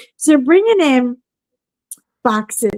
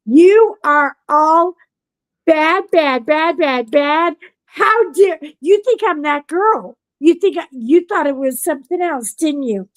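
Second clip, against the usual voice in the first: mock scolding; 5 semitones higher than usual. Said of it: "I was like".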